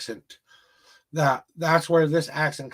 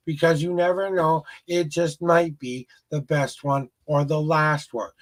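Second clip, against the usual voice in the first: motivational spiel. Acted. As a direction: preach life advice like a hype speaker. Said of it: "there's my little spiel".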